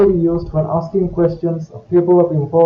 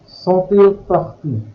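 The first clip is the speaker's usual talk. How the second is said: slow, careful French question; slow example; slower than usual. Shown as a demonstration. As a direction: say it slowly for the learner. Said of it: "The negatives surround the hyphenated verb".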